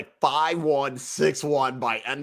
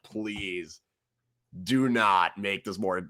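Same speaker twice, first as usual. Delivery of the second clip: much softer, slow plea under the breath; soft pleading; 5 semitones lower, 5 dB quieter, much slower than usual. Retold or imitated. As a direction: beg quietly for it to end. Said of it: "I was like".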